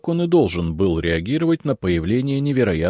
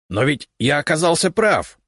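high, triumphant cry; eager exclamation; 9 semitones higher, 3 dB louder than usual. Acted. Left head gloating over the right head, excited exclamation. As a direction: crow about being right. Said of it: "азартно воскликнула левая голова".

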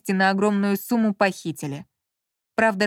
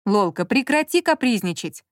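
sharp rebuke. Acted. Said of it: "прикрикнул на неё Маркиз".

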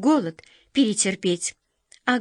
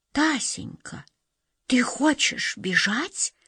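slow, breathless whisper; shocked whisper; 5 semitones higher, slower than usual. A narrator's reading. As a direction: barely get the words out. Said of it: "шептала женщина".

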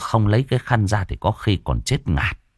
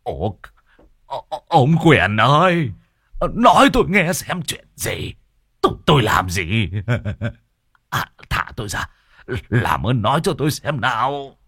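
higher, tearful, halting begging; whimpering plea; 5 semitones higher than usual. A narrator's reading. Hồng begs Quyền Thọt to explain, whimpering. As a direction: stammer out a desperate appeal. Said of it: "Ông Hồng mếu máo gọi".

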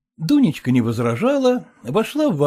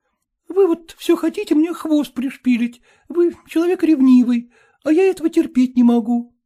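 put-on girl's voice, higher, lightly reproachful; Dunka's voice; 7 semitones higher than usual. Dunka chiding jealous Gleb Kirillovich, higher girlish voice. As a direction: chide him for being jealous.

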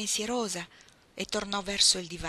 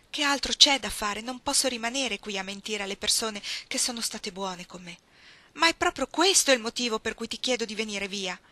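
louder and higher, pleading in distress; woman protesting to her lover, raised voice; heated plea; 4 semitones higher, 5 dB louder than usual. Acted. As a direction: push back hard, upset.

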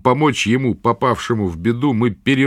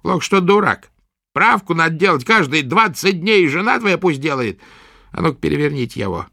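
put-on gruff old witch; 8 semitones higher than usual. A narrator's reading. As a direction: prod the patient roughly. Witch scolds.

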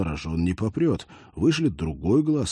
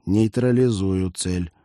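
slow, even synthetic cyborg voice; half robot voice; 4 dB louder than usual. Acted. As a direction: speak like a cyborg through a comm. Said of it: "делал голос киборга ещё более синтетическим".

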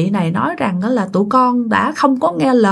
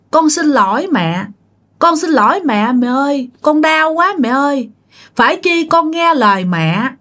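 high-pitched tearful pleading, a touch of sobbing; crying ghost daughter; 5 semitones higher than usual. Retold or imitated. Ghost daughter begs her mother's forgiveness, high and tearful. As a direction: plead through tears like a dead daughter begging forgiveness. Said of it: "đứng đó và khóc nhìn dì Năm".

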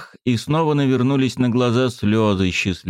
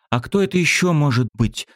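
indignant; 7 semitones higher than usual. A narrator's reading. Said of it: "возмутилась Светка".

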